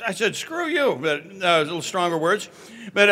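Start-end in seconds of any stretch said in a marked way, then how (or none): 0.4-1.0 mock angry retort. Retold angry retort to counselor.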